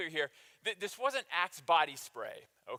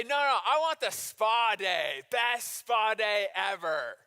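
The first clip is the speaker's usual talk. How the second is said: spa lover; 7 dB louder, slower than usual. Retold or imitated. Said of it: "How many people say".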